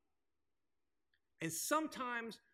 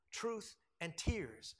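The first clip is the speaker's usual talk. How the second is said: slow refrain; 3 dB quieter, much slower than usual. Real, not acted. Sermon refrain.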